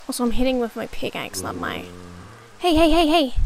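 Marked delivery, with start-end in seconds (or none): 2.6-3.3 loud, high, urgent hey hey; frantic calling out at the mob; urgent shouting. Real, not acted. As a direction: yell to stop him. Yelling at game character.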